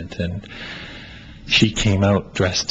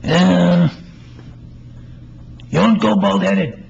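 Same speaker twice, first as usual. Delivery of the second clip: Nigger; 10 semitones higher, slower than usual. Acted. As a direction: answer like it's obvious, bursting with certainty. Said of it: "And he's talking to Nigger in this one".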